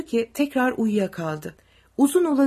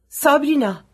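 higher, tearful answer; raised, weepy reply; 5 semitones higher, 6 dB louder than usual. A narrator's reading. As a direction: answer as if about to cry. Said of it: "ağlamaklı bir sesle".

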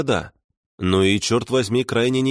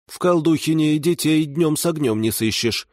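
put-on higher, muttering old granny; old village woman voice; 8 semitones higher than usual. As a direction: mutter it like a puzzled old babushka. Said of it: "пробормотала она".

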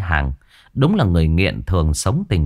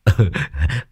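cackling laugh; 3 semitones lower than usual. A narrator's reading. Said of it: "cười khanh khách".

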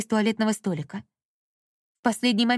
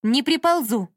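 firm, raised flat refusal; 4 semitones higher, 5 dB louder than usual. A narrator's reading. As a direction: say it with unbending resolve. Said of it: "твёрдо ответила Даша". (твёрдо и решительно)

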